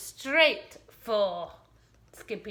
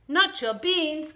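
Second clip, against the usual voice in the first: louder, higher outraged protest; outraged cry; 5 semitones higher, 5 dB louder than usual. Acted. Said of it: "cried Skipito, outraged".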